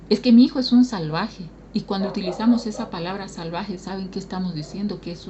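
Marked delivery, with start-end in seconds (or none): 0.1-1.5 louder, stressing mi; scornful complaint. Retold or imitated. A parent scornfully complains about the son, stressing mi. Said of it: "¿no?".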